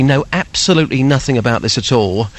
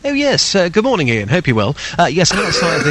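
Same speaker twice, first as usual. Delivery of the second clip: put-on posh radio voice; 3 semitones higher than usual. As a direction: put on your poshest accent. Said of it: "is that your posh voice?".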